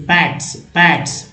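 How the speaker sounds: पैट्स said slowly, twice, carefully; slow model word. Shown as a demonstration. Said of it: "पी ए टी एस". (धीमे से पैट्स)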